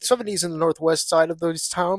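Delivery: quick, punchy live news read; traffic reporter voice. Pretend. Mock traffic report on air.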